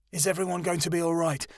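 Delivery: anxious. A narrator's reading. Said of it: "Keanu asked anxiously".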